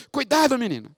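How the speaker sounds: wife calling out from the office, a mild shout; mock shout. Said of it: "ela gritou".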